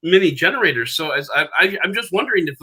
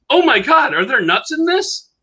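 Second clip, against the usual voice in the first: high, loud comic panic; imitating a panicked date; mock alarm; 12 semitones higher, 3 dB louder than usual. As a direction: cry out in hammed-up shock, voice shooting up. Retold date's allergic alarm.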